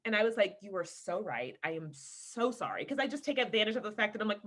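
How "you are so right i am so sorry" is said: soft, lower, contrite admission; sincere apology. Retold or imitated. Wife conceding to husband, softly apologetic. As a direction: own up quietly and sincerely.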